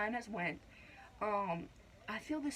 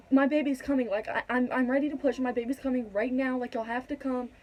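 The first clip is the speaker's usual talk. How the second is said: louder urgent call for help; urgent plea; 3 semitones higher, 5 dB louder than usual. Retold or imitated. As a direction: press them to come now. Calling nurse on button.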